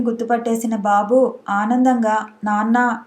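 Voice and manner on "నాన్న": ordinary delivery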